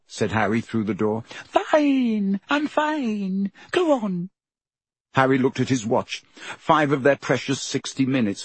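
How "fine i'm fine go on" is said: put-on high girl's voice, quick reassurance; much higher, brushing him off; Hermione's voice. A narrator's reading. Hermione answers through the door.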